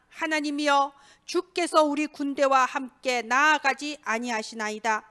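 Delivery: measured, even-toned psalm reading; solemn congregational Bible reading; scripture reading. Real, not acted. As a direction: read the psalm aloud formally, phrase by phrase. Reads a psalm aloud.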